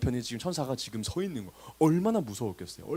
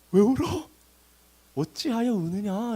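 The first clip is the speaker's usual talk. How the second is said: high, drawn-out teasing question; playful knowing question; 6 semitones higher, slower than usual. Acted. Jesus himself to weeping Mary, playfully bemused. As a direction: tease them lightly, knowing there's no cause for tears. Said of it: "예수님 진짜 재밌으십니다".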